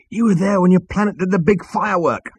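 high, tense retort; angry insistence. A narrator's reading. Zaphod reminding Arthur of his planet, angry. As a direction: drive it home angrily. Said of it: "hissed Zaphod".

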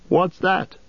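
high, curious hobbit voice; light questioning hobbit. Acted. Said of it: "said Sam".

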